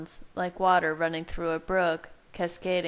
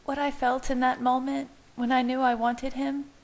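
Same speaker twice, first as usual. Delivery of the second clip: woman's voice; 7 semitones higher than usual. A narrator's reading. Bella explaining.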